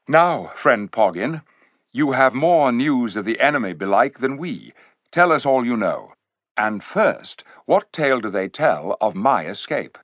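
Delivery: a lightly voiced king, measured and courtly; lightly regal; kingly voice. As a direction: speak as a gracious king asking for news. King addresses the dwarf.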